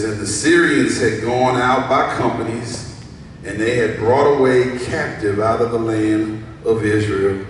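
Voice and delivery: loud, projected Bible reading; scripture reading. Acted. Preacher reading verse two to church, projected. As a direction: read the verse out to the congregation.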